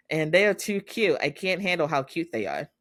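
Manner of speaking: high-pitched fond gushing. Real, not acted. Fan who can't handle their cuteness, real gushing. Gushes over the couple.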